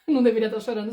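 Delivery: laughing, quick incredulous echo. Shown as a demonstration. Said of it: "Isso não faz sentido". (repetindo com riso incrédulo)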